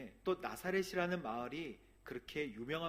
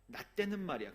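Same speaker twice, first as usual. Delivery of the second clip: mock old-timer; 5 semitones higher, 4 dB louder than usual. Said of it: "그런 라떼 뭐 얘기하면서".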